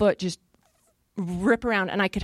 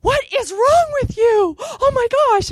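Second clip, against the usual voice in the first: high, louder, slow exasperation; exasperated friend; 14 semitones higher, 6 dB louder, slower than usual. Retold or imitated. Friend scolding her on the phone, high, slow exasperation. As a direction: imitate a baffled, fed-up friend. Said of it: "And she's like".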